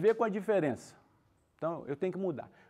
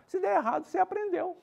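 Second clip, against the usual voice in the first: high, encouraging repeat; lifted reassurance; 11 semitones higher than usual. Shown as a demonstration. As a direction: pitch jumps high on Se der errado.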